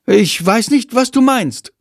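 high, innocent-sounding lie; lying. A narrator's reading. Jendrik lying to the boy, high and innocent. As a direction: play dumb, too innocent. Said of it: "lügt Jendrik".

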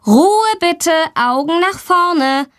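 a teacher calling the class to order; admonishing teacher. Acted. Teacher hushing the class, stern and high. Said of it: "ermahnt sie die Lehrerin".

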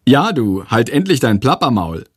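cheeky mocking echo. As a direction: tease him by repeating his words. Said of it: "kommentiert er frech".

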